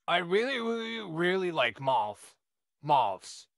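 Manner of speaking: nervous stammer on repeats; stuttering. Acted. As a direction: trip over the words. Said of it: "I'm sorry I'm stuttering a little bit".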